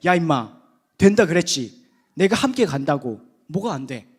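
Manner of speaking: loud, scolding shout; God's angry rebuke. Retold or imitated. Preacher playing God rebuking hesitant Moses, loud angry scolding. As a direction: snap at him like an exasperated father. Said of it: "하나님이 드디어 노하시는 거".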